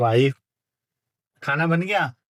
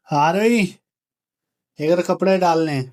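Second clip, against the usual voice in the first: raised, higher-pitched call downstairs; 4 semitones higher than usual. Real, not acted. Husband calling his wife downstairs to hang clothes, calling out. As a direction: call to someone on the floor below. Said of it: "wife को बुलाते हैं अब नीचे से".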